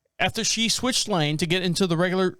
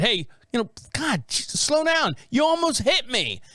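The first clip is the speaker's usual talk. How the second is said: mock driver yell; 5 semitones higher than usual. Imitating the driver shouting at the cop. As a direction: yell the warning in a high mock voice. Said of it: "She laid on the horn and said".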